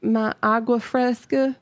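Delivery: lightly forced Southern accent; attempted Southern accent. Shown as a demonstration. Streamer demonstrating the accent for host, shaky Southern accent. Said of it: "do I give the accent?".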